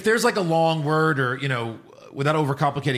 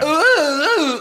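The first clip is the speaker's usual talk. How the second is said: high, loud hammy ooh; strange dub voice; 7 dB louder than usual. Retold or imitated. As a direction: ham it up like a weird dub. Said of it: "the voices are so strange".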